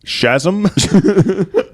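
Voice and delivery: slow, stammered, rising; hesitant Shazam. Pretend. Hero trying the word timidly, slow and rising. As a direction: test the word unsure if it works. Tentative try.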